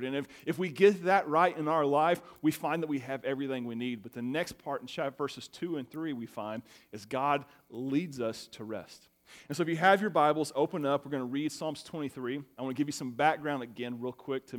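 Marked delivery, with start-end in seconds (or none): 5.2-9.1 slow, weighted restatement; slow emphasis. Real, not acted. Pastor repeating the theme, slow and weighted. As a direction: press the main point home slowly. Big idea repeated slowly.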